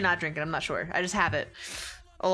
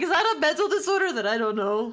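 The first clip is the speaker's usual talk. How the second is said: retold confusion; 6 semitones higher, 4 dB louder than usual. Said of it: "I'm like".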